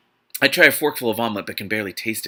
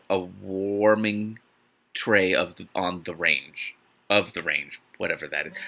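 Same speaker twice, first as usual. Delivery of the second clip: baffled; 5 semitones lower, slower than usual. Real, not acted. Baffled mocking of the phrase.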